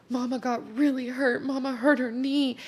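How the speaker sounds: put-on high, small child's voice; toddler voice. Little son telling grandma mama got hurt, in a high toddler voice. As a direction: speak like a worried little boy.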